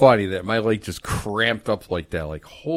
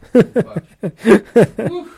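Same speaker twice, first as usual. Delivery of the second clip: sharp high loud curse; pained yell; 12 semitones higher, 12 dB louder than usual. Real, not acted. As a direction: yelp it as pain shoots. Cramp pain returning.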